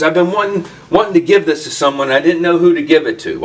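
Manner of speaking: eager rush of words; excited. Retold or imitated. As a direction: friend eager to hand over a gift. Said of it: "He's all excited".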